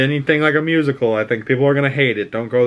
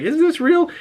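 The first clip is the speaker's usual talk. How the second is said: mock amazement. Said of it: "but you're like".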